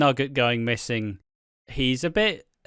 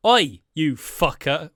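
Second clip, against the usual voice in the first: angry shout; 2 semitones higher, 5 dB louder, slower than usual. Retold or imitated. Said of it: "Denzel stands up and goes".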